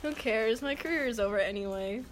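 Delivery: annoyed. Acted.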